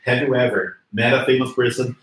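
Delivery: ordinary talk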